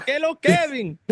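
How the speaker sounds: calling out. Acted. Friend calling out greeting.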